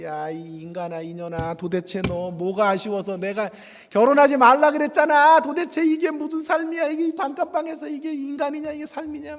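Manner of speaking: furious scolding, rising high and loud; imitating an angry Korean parent. 가난한 딸에게 화내며 꾸짖는 부모 흉내. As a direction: berate the daughter over her cramped room. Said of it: "한국 부모 같으면 난리 났겠죠".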